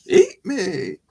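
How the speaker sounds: high, loud silly voice; mock invitation. Presenter daring animals to eat him, silly high invitation. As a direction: offer yourself up in a squealed-high joke voice.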